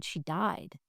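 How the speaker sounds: soft, gentle breaking of news; hushed, tender retelling. Retold or imitated. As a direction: say it softly, with tenderness. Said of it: "very tenderly, I said".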